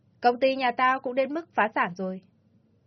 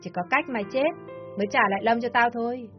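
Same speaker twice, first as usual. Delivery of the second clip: raised, insistent villain voice; harsh demand; 3 semitones higher than usual. Acted. Ly insisting the mother must die, harsh. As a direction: press her without mercy.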